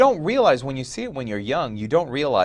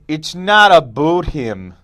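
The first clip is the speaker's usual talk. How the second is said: slow, loud Canadian "aboot"; mock Canadian accent; 4 semitones higher, 8 dB louder, slower than usual. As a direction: exaggerate the Canadian vowels. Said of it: "you can really tell it's".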